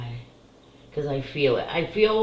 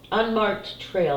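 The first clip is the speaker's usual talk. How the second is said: slow careful reading; 4 semitones higher, slower than usual. Shown as a demonstration. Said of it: "I'm sorry".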